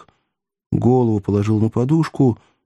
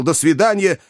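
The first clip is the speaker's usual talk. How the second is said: dryly; 8 semitones higher than usual. A narrator's reading. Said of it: "сухо сказал".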